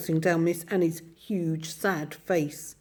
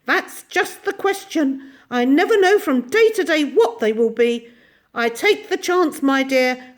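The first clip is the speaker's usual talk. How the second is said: put-on high, bright old little woman voice; tiny ancient shopkeeper; 6 semitones higher, 7 dB louder than usual. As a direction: chatter away as a tiny ancient lady. Mrs Corey speaks to children.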